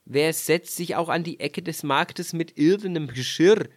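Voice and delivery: lauter, tadelnde Frage; vorwurfsvoll. Acted. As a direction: den Vorwurf laut hinwerfen. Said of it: "sprach der Mann". (der Mann rügt seine Frau, lauter)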